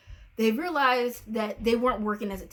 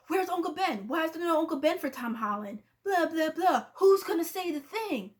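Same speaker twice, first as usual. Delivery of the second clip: high, whiny mocking complaint; mock the fans' whining, pitched up; whiny fans; 6 semitones higher than usual. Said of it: "everybody was always like".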